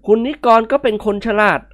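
a light laugh into polite teasing; servant laughing. Acted. Servant Haew laughing at Nikorn. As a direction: tease the master politely. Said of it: "เจ้าแห้วหัวเราะ".

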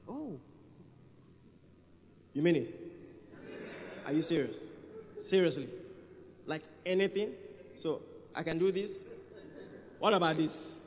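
a believer who can't believe his luck; excited disbelief. Retold or imitated.

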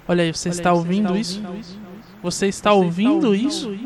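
voice from beyond. Shown as a demonstration. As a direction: speak like a ghost from beyond. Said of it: "eu posso fazer uma voz do além".

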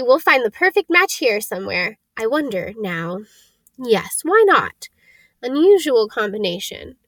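a hint of a happy, musing shopkeeper; lightly voiced old wandmaker, happy. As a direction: reassure the customer, then ponder the choice.

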